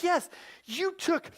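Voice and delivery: mock-shaken accusation, slowly drawn out; hushed, laboured indignation; Nanette. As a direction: imitate an upset churchgoer, word by halting word. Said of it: "And she's shaking".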